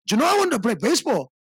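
playful put-on cholo slang. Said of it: "when I do the cholo voice".

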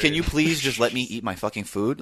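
fed up, begging to be left alone; exasperated diner. Retold or imitated. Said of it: "I'm like".

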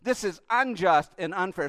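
loud, pained pleading why; voicing our bitter protest; anguished complaint to God. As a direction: cry out at God in hurt. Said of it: "we're looking and we're going".

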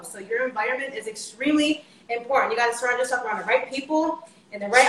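breathless rush of words; talking while out of breath. Real, not acted. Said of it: "I'm out of breath".

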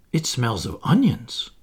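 hushed awe over food; reverent. Acted. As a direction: savour each word with reverence.

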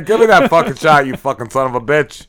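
put-on loud, brash Brooklyn accent. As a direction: play a rough Brooklyn New Yorker. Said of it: "just a thick Brooklyn accent".

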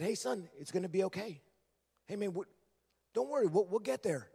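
father soothing his agitated son, softly; soft reassuring. Retold or imitated. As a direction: ease him down quietly. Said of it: "that soft response calmed him down".

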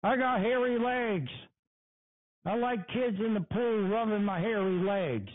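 a hint of a creepy old man, mocked; mocking impression. Host mocks the politician's clip, lightly voiced creep. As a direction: sneer it out like the guy in the clip. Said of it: "What kind of a fucking pig speaks like that?".

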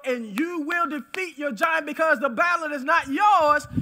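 building preacher's cry; rousing declaration. Real, not acted. Preacher promising victory over the giant, rousing declaration. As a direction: raise the voice toward a forceful climax.

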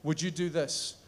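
soft, humble prayer to Jesus; quiet prayer. Shown as a demonstration. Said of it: "pray this prayer with me".

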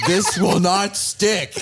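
yelling. Retold or imitated. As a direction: bellow it at the top of your lungs. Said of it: "yelling at the top of his lungs".

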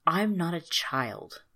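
slow, mildly defeated denial; a touch of weary defeat. Acted. Orin answering the fairy, slow and defeated. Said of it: "Orin sounded defeated".

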